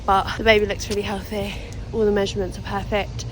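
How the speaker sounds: breathless, talking between breaths; out of breath after walking. Real, not acted. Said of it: "Oh God, I'm so out of breath".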